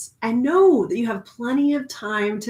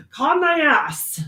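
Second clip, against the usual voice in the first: thy stressed, higher, drawn out; emphatic slow repeat; 6 semitones higher, slower than usual. Shown as a demonstration. Repeating the advice to viewers, emphatic and slow.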